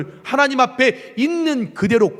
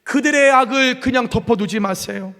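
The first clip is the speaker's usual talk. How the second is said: mild angry plea; 7 semitones higher, 3 dB louder than usual. Acted. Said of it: "기도는 분노와 증오가 가득했습니다".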